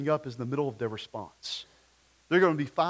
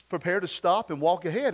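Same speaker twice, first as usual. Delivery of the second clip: little British navigation voice, slightly higher; a hint of mock-British GPS announcement; Siri; 4 semitones higher, 4 dB louder than usual. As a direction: lightly imitate a British phone assistant. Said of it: "in her little British voice".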